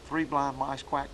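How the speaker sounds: slow chanted three blind mice quack; hen mallard cadence. Shown as a demonstration. Teacher recapping the duck calls, slow chant. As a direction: recite it slow, stress the quack. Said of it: "if you can learn to do those".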